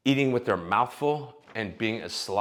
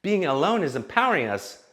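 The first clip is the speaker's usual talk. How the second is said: mocking empowered women; 5 semitones higher than usual. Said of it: "where all women feel like".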